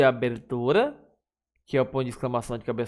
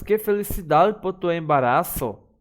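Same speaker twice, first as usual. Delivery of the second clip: higher and a bit brighter with joy; happy exclamation; 4 semitones higher, 4 dB louder than usual. Shown as a demonstration. Teacher demonstrating emotion in an exclamation, mildly joyful. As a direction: beam with happiness for her.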